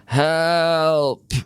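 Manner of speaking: high, desperate call for help; a storyteller's high cry of help. Acted. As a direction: call out trapped and scared. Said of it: "Anansi cried out".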